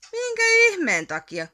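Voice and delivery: can't believe they're leaving; astonished question. A narrator's reading. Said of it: "kysyi Ärmätti". (hämmästynyt kysymys)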